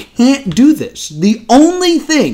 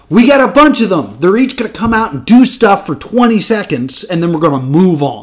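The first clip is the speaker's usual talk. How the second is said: dismissive host; faster than usual. Retold or imitated. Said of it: "where it's just like".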